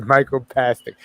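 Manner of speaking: "microplastic" pronounced "micro-pastic"; microplastic without L. Shown as a demonstration. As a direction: leave the L out of "microplastic". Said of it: "I left out the L".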